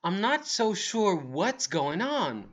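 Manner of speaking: slow, lilting uncertainty; mildly acted puzzlement; confused. Shown as a demonstration. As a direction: draw it out, unsure of yourself. Models a confused expression.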